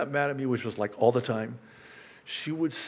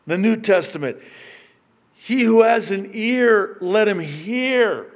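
loud, higher emphatic sermon delivery; full-force preaching; 3 semitones higher, 8 dB louder than usual. Acted. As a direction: drive the point home to the church.

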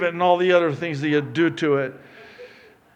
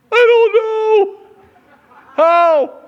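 high, loud, bewildered groom voice; clueless groom; 13 dB louder, much slower than usual. Retold or imitated. A stumped groom answering the pastor, high and bewildered. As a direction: play the stumped groom, pitched up. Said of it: "he looks at me with that look".

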